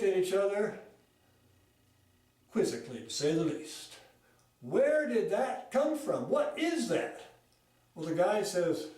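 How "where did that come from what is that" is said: slow, rising amazed questions; puzzled surprise. Retold or imitated. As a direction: marvel at the strange fish. Friends puzzled by hairy fish.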